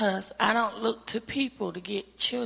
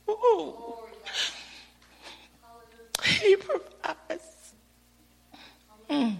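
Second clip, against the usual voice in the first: high, slow, fervent praise; 7 semitones higher, slower than usual. Real, not acted. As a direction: lift it up slowly in praise. Testimony climax, praising God.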